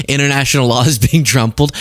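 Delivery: "trampled" said as "TRUMP-uld"; punning mispronunciation. Retold or imitated. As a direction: make the first syllable of "trampled" sound like Trump. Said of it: "it sounded like he said trumpled".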